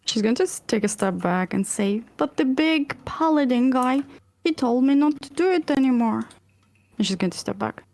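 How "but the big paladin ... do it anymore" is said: put-on childlike refusal.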